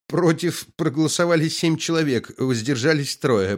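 high, thin bleating report; bleated. A narrator's reading. Pale secretary reading the count, high bleat. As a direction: bleat the count like a timid sheep. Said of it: "проблеяла секретарь".

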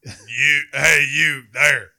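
loud, slow redneck shout; hammed-up redneck yelling; redneck hollering. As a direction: holler it across the yard like a redneck. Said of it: "a redneck's like".

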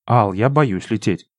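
slow, plaintive and small. Acted. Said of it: "жалобно сказала Лина".

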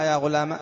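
"يا غلام" ending on a short a; alif dropped, fatha kept. Shown as a demonstration. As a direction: cut the last vowel of "يا غلام" short. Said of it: "وهذه الفتحة".

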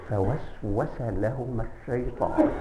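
soft, slow, hushed فوسوس; secretive murmur of the devil's whisper; whispered recitation. Shown as a demonstration. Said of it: "الكلام بخفاء".

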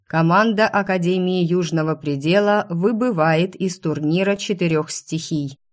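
громкое торжественное объявление; объяви как глашатай на арене. Acted. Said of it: "голос глашатая". (громкий голос глашатая)

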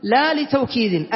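slow recital of "لا لتوكيد"; slow verse recital. Shown as a demonstration. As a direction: stretch the phrase out. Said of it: "يعني وإن تكرر إلا". (تلاوة بطيئة لـ"لا لتوكيد")

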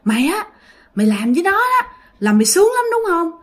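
high, taunting spirit sneering at its victim; menacing ghost voice. Retold or imitated. Ghost taunting the sleeping girl, high mocking sneer.

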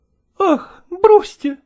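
high, loud, dismissive cry; exclaiming. A narrator's reading. Actress Malkova scoffing at Chechentsev's cooperative, high exclamation. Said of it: "воскликнула Малкова".

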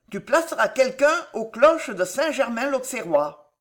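lightly voiced queen laying out a plan; commanding queen. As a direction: give orders with firm authority.

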